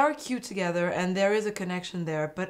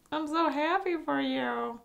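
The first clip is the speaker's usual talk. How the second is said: slow, higher mock-sweet congratulation; fake happy; 9 semitones higher than usual. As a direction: hide jealousy badly with forced cheer. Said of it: "not good at hiding it".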